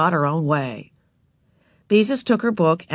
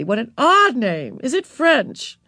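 curious lady; 6 semitones higher, 4 dB louder, slower than usual. Acted. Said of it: "exclaimed the lady".

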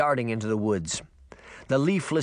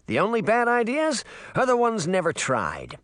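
put-on boy voice; 9 semitones higher than usual. A narrator's reading. Puck voiced in dialogue.

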